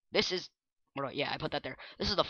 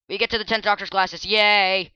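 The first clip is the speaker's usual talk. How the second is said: cheering; 5 semitones higher, 6 dB louder than usual. Real, not acted. Cheering about glasses.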